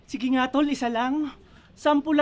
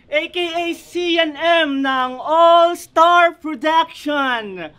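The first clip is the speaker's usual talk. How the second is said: slow, stretched-out mock introduction; mock announcer; 3 semitones higher, 3 dB louder, much slower than usual. Battle rapper introducing rival by alias, mock announcer. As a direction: announce the rival with drawn-out words.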